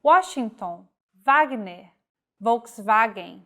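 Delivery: Washington with an English W, Wagner and Volkswagen with a V sound; careful example list; W as in origin. Shown as a demonstration. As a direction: switch the W to V for the German names. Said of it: "follows the pronunciation of the language of origin".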